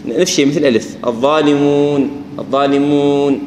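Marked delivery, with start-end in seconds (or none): 1.1-3.4 الظالمون with nasal غنة bleeding into the و; خطأ: الظالمون بغنة; wrong الظالمون. Shown as a demonstration. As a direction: let a nasal hum creep into the و of الظالمون. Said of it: "خلط صوتها بشيء من صوت الغنة".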